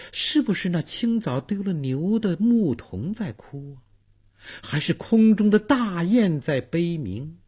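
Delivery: put-on puzzled old man wondering aloud; muttering to himself. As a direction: ask yourself, drawing out the questions. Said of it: "自言自语道".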